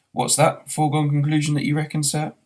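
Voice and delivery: lightly voiced barman, quick; quizzical barman. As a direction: rattle it off as the curious barman.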